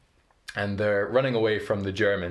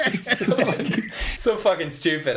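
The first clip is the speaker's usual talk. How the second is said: high, giggly real laughter through the words; laughing; 12 semitones higher than usual. Real, not acted. Joke teller amused by own silly punchline, laughing. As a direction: crack up while talking.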